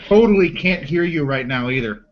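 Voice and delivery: deadpan sarcasm; dry, joking sarcasm; sarcastic. Real, not acted. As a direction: tease with a claim you don't mean. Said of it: "you were being sarcastic".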